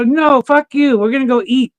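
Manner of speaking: high-pitched mock protest; exasperated refusal, acted out; retold firm refusal. Retold refusal to keep gambling.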